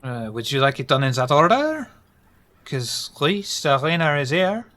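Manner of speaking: put-on light French accent. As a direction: welcome them in French accent. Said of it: "Shiver's French accent".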